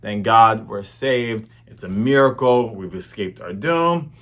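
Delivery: relieved pirates. Retold or imitated. Starving pirates celebrating their rescue, slow and loud. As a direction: draw it out like saved men rejoicing. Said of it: "they're like".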